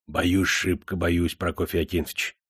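тише и медленнее, с опаской; вполголоса, боязливо; полушёпотом. A narrator's reading. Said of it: "торопливо прошептал он". (приказчик боязливо признаётся хозяину в страхе)

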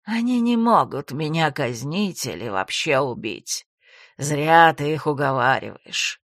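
low, slow gloating villain voice; calm mad villain. Acted. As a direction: gloat calmly, savouring his trump card. Villain voice held.

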